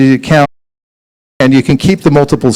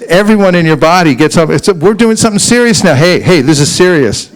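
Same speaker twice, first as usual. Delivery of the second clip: upright demo; 2 semitones higher than usual. Shown as a demonstration. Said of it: "But if you go like this".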